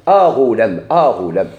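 أ غلام, the "a" clearly set apart, falling low; demo pronunciation. Shown as a demonstration. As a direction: repeat أ غلام for the class. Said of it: "شكون المعرف هنا".

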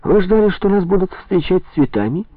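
sharp, high irritated question. A narrator's reading. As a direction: let the annoyance break out. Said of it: "Ленин начал раздражаться".

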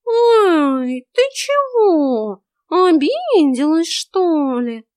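high, slow cat voice in hammed-up surprise; cat pretending to be hurt, mock-surprised and high; fake surprise. A narrator's reading. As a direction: act innocent, overdo the shock. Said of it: "фальшиво удивился котяра".

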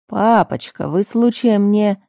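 teasing question broken off; cut off mid-sentence. Acted. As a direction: stop dead mid-question. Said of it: "обрываю его на полуслове".

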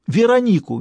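high, loud shouted name; panicked shout. Acted. Stas yelling the name down the phone, panicked. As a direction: yell the name out.

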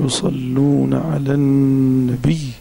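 slow, measured recitation of the verse; solemn slow Quranic reading. Acted. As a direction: recite it slowly and reverently. Opens lesson with Quranic verse.

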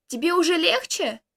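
loud call toward the house. Acted. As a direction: shout it across to a friend. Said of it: "я крикнул". (громкий оклик)

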